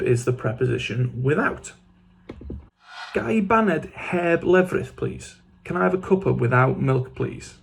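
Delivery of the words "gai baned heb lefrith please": slow model phrase. Shown as a demonstration. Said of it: "model then repeat".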